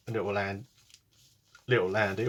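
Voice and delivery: talking through hiccups; words broken by a hiccup. Real, not acted. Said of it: "Oh, sorry, I've got hiccups".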